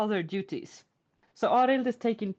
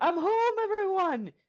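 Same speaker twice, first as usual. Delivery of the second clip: play-acted, very high-pitched, loud calling yell; 10 semitones higher than usual. Retelling a story where Arild throws the doors open: yelling. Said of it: "he throws the doors open and he yells".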